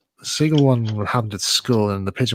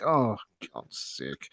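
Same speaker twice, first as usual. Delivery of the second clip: laughing dismay; 2 semitones lower, 8 dB quieter, much slower than usual. Retold or imitated. Pigeon poo in front of crowd.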